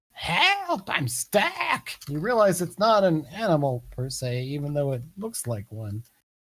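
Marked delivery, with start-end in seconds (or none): 0.2-1.9 high, far-off toad-creature voice. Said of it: "he's yelling".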